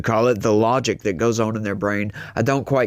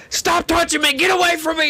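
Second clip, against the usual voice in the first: shrill, much higher panicked shriek; freaking out; faster than usual. Retold or imitated. Stranger greeted on the street, shrieking back in panic. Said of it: "they started freaking out".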